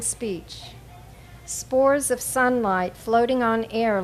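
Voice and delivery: measured recital, pausing at line breaks; poem read aloud with deliberate phrasing; poetry reading. Acted. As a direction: give each phrase its own space. Poet reads second poem aloud.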